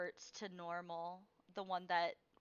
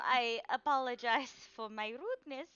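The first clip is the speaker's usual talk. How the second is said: put-on amused old seer; 5 semitones higher, 9 dB louder than usual. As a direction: scoff at the naive plan. Madame Eva laughs at plan.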